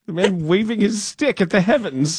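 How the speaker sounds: lightly hammed-up passerby exclamation; mock passerby. Host playing a driver spotting the bird man, mock exclamation.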